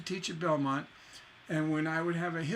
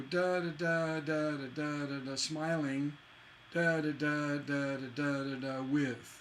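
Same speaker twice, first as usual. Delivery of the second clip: even rhythmic da-das, "smiling" unstressed at its tail; asymmetrical metre demo. Shown as a demonstration. Teacher shows an unrhymed couplet, chanted metre ending on "with". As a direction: beat out two lines, closing on stressed "with". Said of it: "asymmetrical couplets actually don't want to rhyme".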